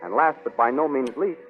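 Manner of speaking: put-on booming old-time serial announcer; announcer hyping the Sunday comics; radio announcer. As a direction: sell next week's episode with gusto. Announcer closes and reads ad.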